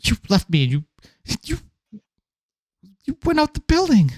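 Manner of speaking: shrill-pitched ranting woman; high indignant rant. Acted. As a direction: pile on the complaints, rising high. NPC rants at player.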